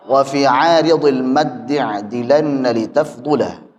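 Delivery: slow, drawn-out Arabic chanting; tajwid verse recitation. Real, not acted. Teacher reads the verses for students, slow melodic recitation. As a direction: recite measuredly, long held vowels.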